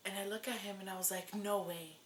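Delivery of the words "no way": whisper. Retold or imitated. Disbelief at positive test.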